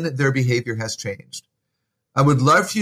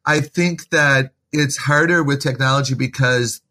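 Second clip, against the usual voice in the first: smiling voice. Real, not acted. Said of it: "and I'm smiling when I say this".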